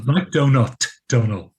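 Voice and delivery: "Donal" rhymed on the start of "donut"; pronunciation of Donal. Shown as a demonstration. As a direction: show DOH-nul, as in "donut". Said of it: "it's pronounced Donal".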